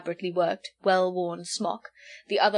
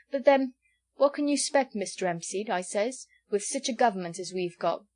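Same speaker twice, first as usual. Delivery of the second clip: indignant host; 2 semitones higher than usual. Acted. Innkeeper grumbling to Hempseed about the government, indignant. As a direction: work yourself up over the government.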